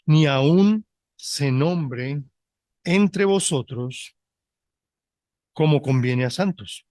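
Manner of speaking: slow, measured Bible reading, word by word; solemn scripture reading. Acted. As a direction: read the verse slowly and gravely to the congregation. Reads the Bible verse aloud. (lectura bíblica lenta y solemne)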